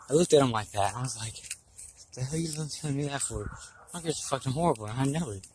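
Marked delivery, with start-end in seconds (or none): 2.1-5.5 softer, mock-indignant thought; inner voice, hushed. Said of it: "but I said in my head".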